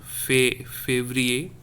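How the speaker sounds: "fé-" alone, then "février" in full; é as A sound. Shown as a demonstration. Teacher models the A sound in "fé-, février", é isolated first. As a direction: say "fé-, février" with é as a clear "ay". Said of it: "A sound".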